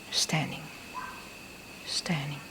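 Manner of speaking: softly murmured, falling away; soft mental note. Shown as a demonstration. Meditation teacher modelling a mental note, soft and inward.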